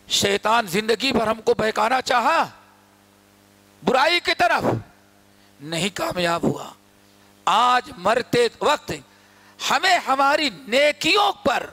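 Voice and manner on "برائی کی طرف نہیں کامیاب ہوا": ordinary delivery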